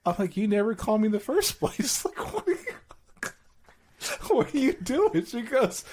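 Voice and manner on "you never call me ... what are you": raised, teasing protest; pitched-up mock accusation; mock indignant. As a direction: call her out, playfully outraged. Retold teasing spat with wife.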